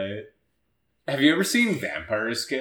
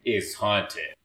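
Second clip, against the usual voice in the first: understated intense, spooky announcement; slower than usual. Acted. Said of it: "sounds really intense when you say it in that voice".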